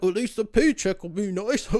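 lightly put-on airy mock voice; mocking a naive friend. Mocking friends who praise overtime pay, airy put-on voice. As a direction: parrot the silly comfort back, dismissive.

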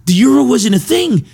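very high, loud, exasperated teacher; exasperated teacher impression. Comedian imitating the history teacher answering about the euro, high and exasperated. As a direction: shriek it in disbelief. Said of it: "he would always be like".

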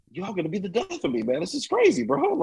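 very high, exasperated mock plea; pleading planet Earth. Voicing Gaia fed up with humans, high exasperated voice. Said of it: "talk about Gaia as being this".

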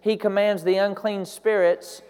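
slowed, weighty repeat of he commands; deliberate preacher emphasis; slow emphatic repeat. Shown as a demonstration. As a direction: lean on he and slow down. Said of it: "slowed repeat".

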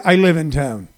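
low, understated quoted reply; imitating a singer. Acted. Retelling a singer's answer to a fan, low impression. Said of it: "Try to do my best Warren Zevon, uh, voice".

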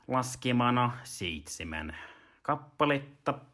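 slow audiobook reader, long pauses; imitating a measured textbook narrator; Tuomo Niemelä. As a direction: read out each item slowly and deliberately. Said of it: "sitten mennään Tuomo N:ään".

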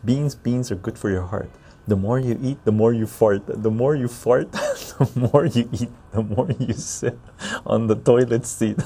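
sing-song rhyme recital; reciting a poem. Shown as a demonstration. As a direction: recite the ditty with a bounce. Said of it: "Oh, here's a poem".

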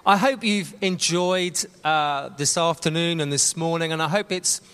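talking round a sweet; sweet tucked in the cheek; mouth full. Real, not acted. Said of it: "I'm talking with a sweet in my".

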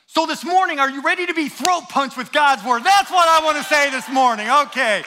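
loud, high-pitched pulpit rallying cry; rousing preaching. Real, not acted. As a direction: fire up the congregation. Rallies congregation as a preacher.

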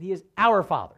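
"our" leaned on before "Father"; stress on "our". Shown as a demonstration. Preacher stressing shared family, emphatic "our". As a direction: put the weight on "our". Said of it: "I want to stress on the word".

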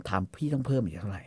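low, hushed question; quiet, gentle put-on voice; soft-voiced customer. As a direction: ask the price softly and discreetly. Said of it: "ทำเสียงนุ่มๆ".

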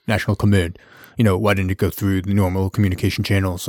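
imitated deep-voiced captain, pitched low; low, lightly put-on captain's voice. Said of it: "He's got a real deep voice".

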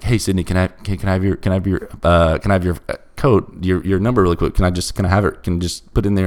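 softly coaxing, imitating a gentle plea. Coaxing a drunk friend for her phone code, soft and gentle. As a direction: coax her softly, like calming someone on edge. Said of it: "trying to be real soft and gentle".

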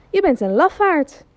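a touch of anger, high call; boy calls out in mild anger; angry shout. Acted. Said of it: "Dan wordt de jongen kwaad". (jongen roept licht boos naar de stem)

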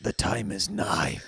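low, slow portentous pronouncement; Game of Thrones proclamation. Acted. Co-host announcing the fateful moment, portentous. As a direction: intone it like a solemn fantasy prophecy. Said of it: "the Game of Thrones moment wash over you".

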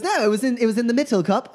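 high-pitched cheat's protest; protesting trickster. Acted. Magician insisting the trick was fair, high protest. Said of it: "He goes".

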